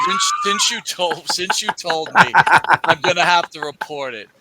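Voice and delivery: high, loud, slowed emphatic shout; mock outraged declaration; shouted insistence. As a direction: hammer it home at full volume.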